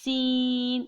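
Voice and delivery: سین with a sharp whistle-like s; whistling seen. Shown as a demonstration. Teacher showing teeth closed firmly, whistling سین. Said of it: "سین کی آواز سیٹی کی طرح ہوتی ہے".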